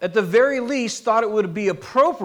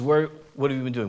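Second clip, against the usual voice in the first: casual; 6 semitones lower, faster than usual. Retold or imitated. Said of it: "Just completely casual".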